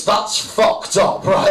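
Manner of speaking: breathy whispered slow aside; conspiratorial whisper. Real, not acted. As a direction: drop to a whisper, slowly. Comic's aside on the myth.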